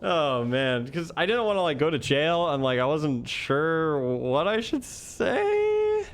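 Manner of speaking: high whine, last words dragged out long; breaking down a little. Retold or imitated. Detained teacher afraid of jail, re-enacted breaking down. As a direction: wail it mildly, stretching the end. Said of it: "breaking down a little bit".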